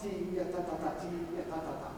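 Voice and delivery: "T, ya, ta, ta, ta" kept short and open; short open syllables. Shown as a demonstration. Teacher applying the drill, short open "T, ya, ta, ta, ta". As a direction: say "T, ya, ta, ta, ta" with a low tongue. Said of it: "Keep your tongue low and just keep it short".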